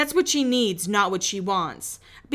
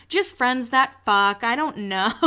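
imagined awkward confession; slower than usual. Pretend. Podcaster imagining what she almost said, mock awkward confession. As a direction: draw it out, then let the last word soar playfully. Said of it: "ready for her to be like".

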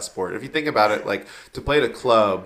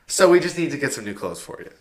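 higher, careful coach voice; 4 semitones higher than usual. Retold or imitated. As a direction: tactfully explain weight gain. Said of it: "And she was like".

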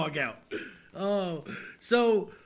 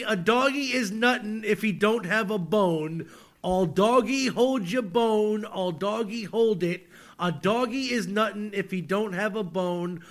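deadpan lyric reading. Shown as a demonstration. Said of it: "as I read them aloud to you".

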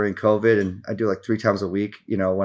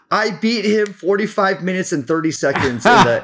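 excited boast; 7 semitones higher than usual. Retold or imitated. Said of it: "the next day she's like".

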